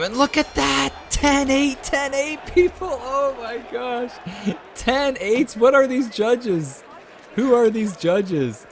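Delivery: high, loud, drawn-out shock at the scores; outraged disbelief. Real, not acted. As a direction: shout at the judges in disbelief. Outraged at ten eight scorecards.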